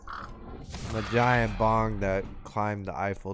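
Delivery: slow robot voice changer. Real, not acted. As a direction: talk through a robot voice filter. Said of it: "Fucking robot voice".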